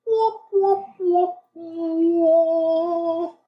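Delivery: high gleeful whooping; excited whoop. Real, not acted. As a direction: whoop it up with glee.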